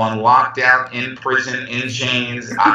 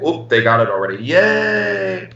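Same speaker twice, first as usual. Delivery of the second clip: mock cheer; 4 semitones higher than usual. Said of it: "and I was like".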